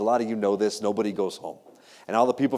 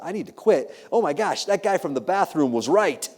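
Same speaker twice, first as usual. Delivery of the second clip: higher-pitched retold moment of realisation; sudden epiphany; 5 semitones higher than usual. Young lawyer realising he must quit, sudden epiphany. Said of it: "ever had an epiphany moment".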